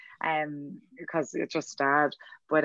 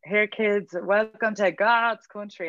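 higher, slow proud announcement; big exclamation; 4 semitones higher, 3 dB louder, slower than usual. Retold or imitated. Dad announcing Donegal to kids in car, proud exclamation. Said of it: "a big exclamation every time".

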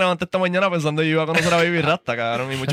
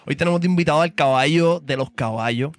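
show host intro. Acted. Host introduces King Impact to the audience, hyped.

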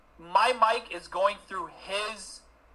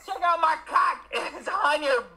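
Trump voice; 5 semitones higher than usual. Retold or imitated. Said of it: "He went like this".

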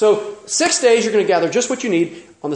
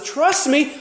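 high, urgent plea to trust; high-pitched emphatic "Trust me"; earnest promise; 9 semitones higher than usual. Retold or imitated. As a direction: press it on them like a promise. Preacher voices God's promise.

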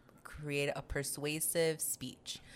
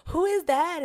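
mock baffled; 14 semitones higher, 10 dB louder, slower than usual. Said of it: "everybody was like".

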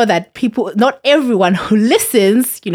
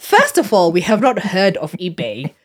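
mock Twitter voice. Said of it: "Twitter was like".

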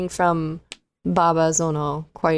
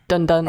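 imitated Netflix sound. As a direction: voice the two-beat intro sting. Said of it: "replace the Netflix".

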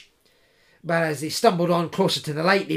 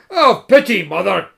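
high, loud plea; pleading cry; 3 semitones higher, 9 dB louder than usual. Acted. Clava begging the old woman, high and loud. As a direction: beg for pity. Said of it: "Clava cried".

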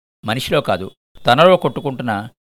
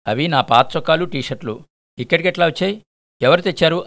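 raised, higher shouting voice; 5 semitones higher than usual. Acted. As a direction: call out in shocked disbelief. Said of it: "Ravi అరవడం విని".

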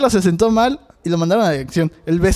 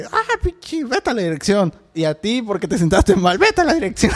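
mock furious teacher, pitched way up; angry teacher; 2 semitones higher than usual. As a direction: ham up an outraged teacher sending kids off. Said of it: "la profesora se emputó así de".

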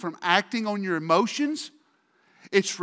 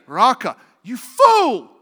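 sharp, louder "you fool"; voiced insult; 3 semitones higher, 7 dB louder, slower than usual. Preacher voicing the insult inside Jesus' words. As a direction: snap out the insult.

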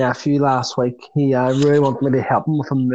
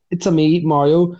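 put-on cod Italian accent; 3 semitones higher than usual. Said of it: "in his cod Italian accent".

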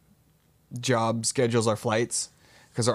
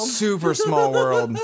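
laughing; 3 semitones higher, 4 dB louder, slower than usual. Real, not acted. Laughing at the coincidence.

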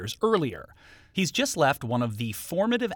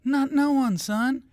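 mock tough; 12 semitones higher, 4 dB louder, slower than usual.

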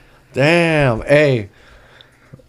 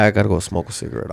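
laughing exit line; slower than usual. Retold or imitated. Joking about leaving for a smoke.

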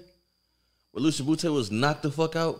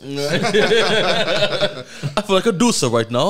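put-on horrible British accent; 5 semitones higher, 3 dB louder, much slower than usual. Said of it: "That was a horrible accent".

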